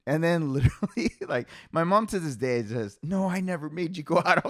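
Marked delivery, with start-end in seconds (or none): 3.0-4.4 higher mock-indignant mom, laughing; amused mock protest; indignant denial. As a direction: imitate mom denying it through a laugh. Mom's denial, retold while laughing.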